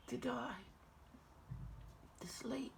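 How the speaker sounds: measured Shakespearean verse with long pauses; dramatic soliloquy. Acted. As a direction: weigh each thought aloud as Hamlet. Performs Hamlet's soliloquy.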